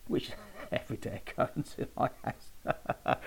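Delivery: breathy chuckle through the words; laughing. Real, not acted. Joking to listeners about a celebrity ringing his house, laughing. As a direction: say it as a joke, breaking into laughter. Jokes about star phoning him.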